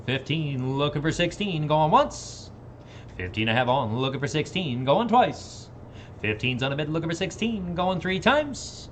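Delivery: rhythmic auction chant; auctioneer. Acted. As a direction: rattle off the bids.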